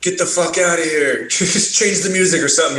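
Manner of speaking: high-pitched mock telling-off; imitating Phelps. Bandmate ordering a DJ to change the music, imitated irritation. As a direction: act out an irritated demand to clear off. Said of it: "Phelps comes up there and he's like".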